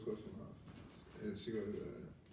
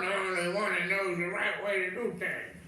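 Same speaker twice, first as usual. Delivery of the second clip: bossy know-it-all; 4 semitones higher, 4 dB louder than usual. Retold or imitated. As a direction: play the know-it-all who lectures. Mocking Steve Harvey's bossy talk.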